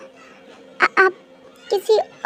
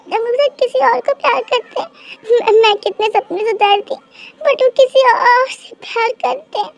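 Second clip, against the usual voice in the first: acted crying; 2 semitones higher than usual. Girl tells her friend her crush loves another, crying. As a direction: sob it out to your best friend. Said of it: "तू सच में रो रही है".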